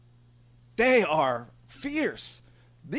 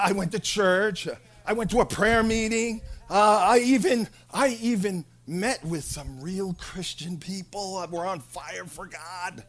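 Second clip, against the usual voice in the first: mopey believer; 3 semitones lower, 6 dB quieter than usual. Acted. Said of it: "You're like".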